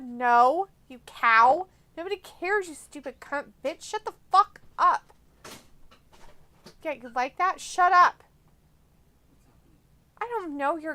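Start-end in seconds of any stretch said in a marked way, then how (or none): 0.0-8.2 loud mock insults, high and loud; hammed-up shouting at a friend; playful yelling. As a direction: yell teasing abuse.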